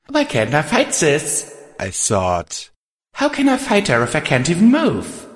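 high, frantic and tense; high panicked thought. Acted. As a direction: panic rising in your head.

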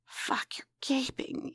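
breathy gasped whisper. Acted. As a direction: gasp it out in a whisper. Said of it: "you gasped".

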